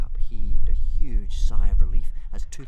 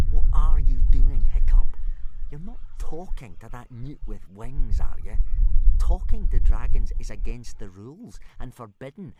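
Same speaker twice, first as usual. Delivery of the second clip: a light mocking sneer, a touch higher; 4 semitones higher, 4 dB louder than usual. Snotlout leaning over to sneer at Hiccup, mild mockery. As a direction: taunt him with a sneer. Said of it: "sneer at Hiccup".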